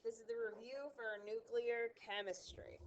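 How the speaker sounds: congested, sick-sounding voice. Real, not acted. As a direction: speak like you have a cold. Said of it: "forgive my sick voice".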